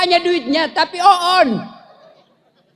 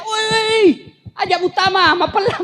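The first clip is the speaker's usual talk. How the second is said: Bugis call, raised higher; old man yelling at a stranger, higher pitch; mock shout; 4 semitones higher than usual. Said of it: "dia teriak".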